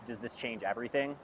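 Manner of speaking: a quiet, understated calm question; imitating an eerily calm question, lightly; retold calm voice. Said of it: "in an extremely calm voice".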